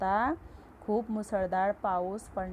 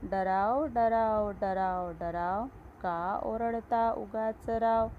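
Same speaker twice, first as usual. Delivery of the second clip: poem recitation; slower than usual. Acted.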